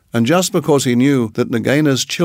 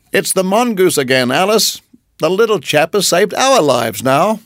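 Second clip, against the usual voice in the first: big man's voice; 6 semitones higher than usual. Acted. Big man speaks to his wife.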